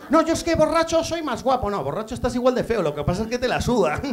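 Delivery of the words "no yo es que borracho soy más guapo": mock drunk brag. Imitates drunk guy bragging.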